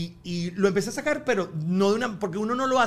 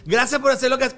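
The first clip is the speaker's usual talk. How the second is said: loud, higher imitation of earnest thanks; acted heartfelt thanks, pitched up; mock patriotic gratitude; 7 semitones higher, 6 dB louder than usual. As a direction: imitate a fan thanking a national hero. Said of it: "como que si yo estoy defendiendo la patria".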